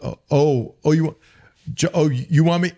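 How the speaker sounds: high mocking sarcasm; sarcastic. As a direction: needle the coach in a high sarcastic voice. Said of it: "I was always sarcastic".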